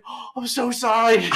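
high, loud mock-sorry dad; a dad caught napping, hammed-up and high; dad's apology. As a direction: squeak out a guilty dad's apology. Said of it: "he's like".

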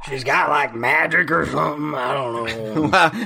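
dark, ominous whisper-like voice; sinister voice. Acted. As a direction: say it like a shady villain. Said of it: "I don't know why you sound so sinister".

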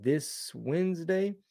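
"This Wednesday?" asked slowly with a rising, doubtful tune; slow quiet query, still unsure; unsure question. Real, not acted. Checking the tour date.

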